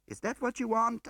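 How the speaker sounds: loud and high demand; high pained challenge. A narrator's reading. Woman challenging her husband, high and loud. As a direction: confront him. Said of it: "I asked him".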